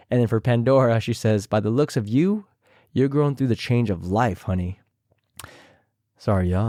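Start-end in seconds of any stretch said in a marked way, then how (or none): 1.5-4.8 imitating Raven. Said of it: "I tried my best to imitate them".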